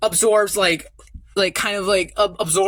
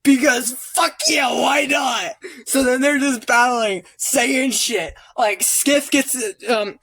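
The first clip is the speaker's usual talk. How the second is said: excited rant; 4 semitones higher than usual. Real, not acted. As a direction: pile on the action breathlessly. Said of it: "rambling with excitement".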